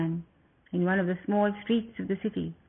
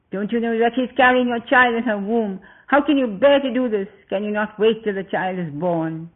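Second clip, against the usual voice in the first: pleading; 3 semitones higher, 5 dB louder than usual. Acted. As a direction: beg him desperately, voice raised. Lakshmana pleads against the order.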